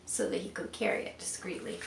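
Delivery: hushed confiding whisper; whispered discreetly. A narrator's reading. Hushed aside about discretion.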